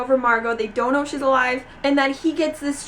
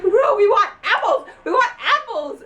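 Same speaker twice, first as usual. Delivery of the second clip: mock-angry laughing demand; 7 semitones higher than usual. Friends griping about junk food, laughing mock demand. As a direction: playfully whine it through laughter. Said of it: "they're so mad at him".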